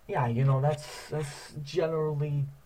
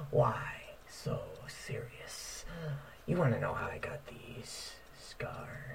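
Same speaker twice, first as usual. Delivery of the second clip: creepy villain whisper; 5 dB quieter, slower than usual. Retold or imitated. The Joker's lines quoted.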